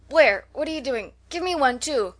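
high, loud eager demand; eager cry. A narrator's reading. Clover waking as Katy finds cakes, eager cry. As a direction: pop up wanting your share. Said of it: "cried Clover".

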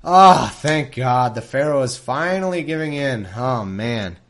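big exhaled relief, loud at first; mock relief. Reader hears the Pharaoh is finally giving in, mock relieved. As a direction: let it out as if finally off the hook.

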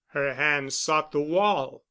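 plain reading voice

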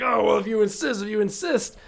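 feigned humility. Retold or imitated. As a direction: play at being humble. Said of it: "trying to be humble about it".

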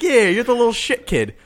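high, loud mock old lady jab; hammed-up aunt calling him a kid; imitating the aunt. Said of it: "She's like".

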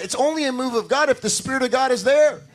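ordinary talk

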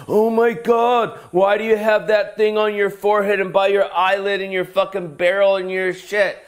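a stranger gawking at face tattoos, high and amazed; nosy stranger. Retold or imitated. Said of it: "someone comes up to you and says".

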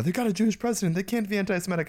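high mocking voice of people online; a high, smug parody of the posters; mocking quote. Mocking people online in a high, smug voice. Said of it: "so many people being like".

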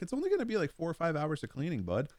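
high, sing-song teasing reassurance; mock reassuring. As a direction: pretend to comfort the kid while trolling him. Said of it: "I'm like".

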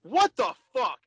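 a drawn-out, disbelieving what the fuck; exasperated outburst. Real, not acted. Telling friends about a surprise ticket, exasperated.

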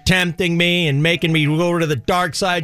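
lightly voiced exasperated Jesus; a hint of a pleading, put-upon Jesus; Christ voice. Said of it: "Christ dragging the devil around".

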